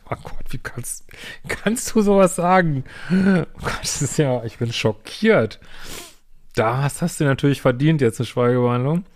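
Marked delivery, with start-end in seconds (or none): 0.1-5.6 hammed-up outrage, slow and higher; mock his wounded reaction; mock shock. Parodiert gekränkten Freund. (gespielt schockiert über den Kuschelspruch)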